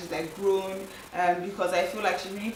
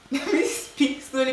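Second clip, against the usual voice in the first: higher, amused self-interruption; laughing self-correction; 5 semitones higher than usual. Real, not acted. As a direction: laugh as you catch your own stumble. Laughs while correcting her own speech.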